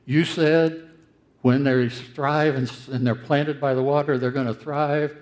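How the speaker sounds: pointed accusation of a broken promise; Jeremiah quoting God back. Retold or imitated. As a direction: throw the promise back in God's face. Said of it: "He says".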